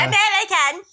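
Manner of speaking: high, hammed-up American accent; mock American accent. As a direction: interrupt with an exaggerated American "American!". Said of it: "do an entire show with a British accent".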